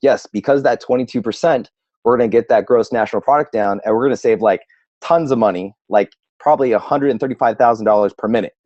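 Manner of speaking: fast, rattling off figures; numbers-driven emerald. Retold or imitated. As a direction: speed through the stats like an analyst. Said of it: "with the emerald".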